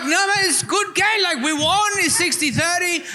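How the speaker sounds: put-on a mild Hughesy-style Australian accent. Doing an Aussie accent for his bored mates, light Australian twang. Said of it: "The speaker's Australian accent impersonation".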